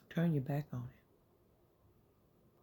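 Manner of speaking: very slow, every word drawn out; emphatic command. Real, not acted. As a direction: lay down the command slowly and weightily. Preacher stresses the command.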